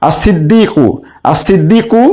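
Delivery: "আর সিদ্দিকু" as as-siddiqu, no L; silent lam. Shown as a demonstration. Teacher repeating for students, lam silent in "আর সিদ্দিকু". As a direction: double the S after the article in "আর সিদ্দিকু". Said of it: "আলিফ লামের লাম উচ্চারণ হচ্ছে না".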